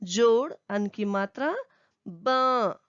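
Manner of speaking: ब said as a nasal बँ; teacher modelling the nasal बँ; nasal sound demo. Shown as a demonstration. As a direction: let ब ring through the nose. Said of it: "completely नाक से".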